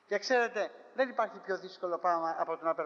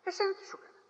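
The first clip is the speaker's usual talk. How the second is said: plaintive question; 12 semitones higher, faster than usual. Acted. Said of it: "λέει".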